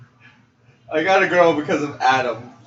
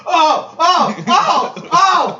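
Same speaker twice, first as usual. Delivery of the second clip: high, loud cries of recognition; real loud, high-pitched hooting; excited outburst; 7 dB louder, much slower than usual. Real, not acted. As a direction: burst out laughing and whooping.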